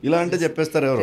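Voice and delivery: fast, lightly voiced Krishna-style line; quick light impression of a veteran hero; Krishna mannerism. Shown as a demonstration. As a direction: rattle it off fast in a hint of the old star's style. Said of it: "Krishna గారు".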